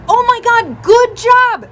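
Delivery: high, loud congratulations; excited praise. Retold or imitated. Mom congratulating daughter on her grade, excited praise.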